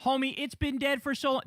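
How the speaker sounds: ordinary delivery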